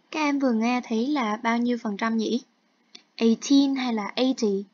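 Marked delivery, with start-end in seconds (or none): 3.2-4.6 "Eighteen" stressed on the second syllable, "eighty" on the first, slowly; contrast eighteen and eighty. Shown as a demonstration. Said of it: "Eighteen thì sẽ nhấn vào âm hai". (nhấn âm hai ở "Eighteen", âm một ở "eighty", nói chậm)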